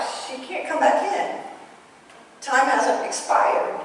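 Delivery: high, drawn-out mock protest; retold protest.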